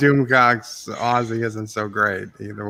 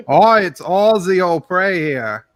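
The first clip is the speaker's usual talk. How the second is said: hammed-up Australian accent, bit higher; 4 semitones higher than usual. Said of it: "I won't do my Australian accent".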